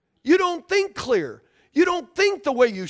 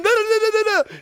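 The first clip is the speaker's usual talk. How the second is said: higher, louder mock denial; mock angry husband; 8 semitones higher, 3 dB louder than usual. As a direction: protest like an upset husband.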